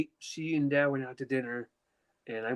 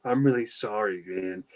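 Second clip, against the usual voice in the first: gentle sympathy; 5 semitones lower, slower than usual. Retold or imitated. Uncle consoling him over phone.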